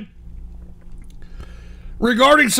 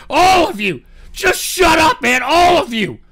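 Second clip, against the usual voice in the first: angry shouting; 3 semitones higher than usual. Real, not acted. Yelling at chat.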